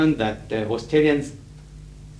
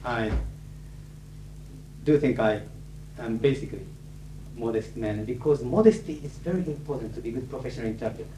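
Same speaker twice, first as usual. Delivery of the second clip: a touch more serious, softer; 5 dB quieter than usual. Real, not acted. Closing the speech to students, a touch more serious. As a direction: drop the joking, sound sincere. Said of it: "in a little more serious tone".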